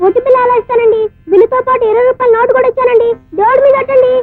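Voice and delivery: tearful pleading. Acted. Boy swearing by the gods that he paid, tearful pleading. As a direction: swear it, close to crying. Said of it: "చిన్న కుర్రాడు ఏడుస్తా ఉంటే".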